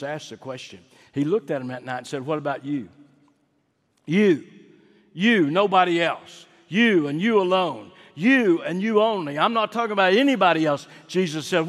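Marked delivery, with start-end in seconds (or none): 4.0-10.9 higher, louder, jabbing each you; emphatic preaching. Acted. Preacher voicing Jesus challenging the disciple, emphatic. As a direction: point at every listener as you say it.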